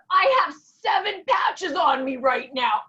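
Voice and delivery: loud, drawn-out proclamation; imitated excited announcement. Friend announces her patches, retold as a loud slow exclamation.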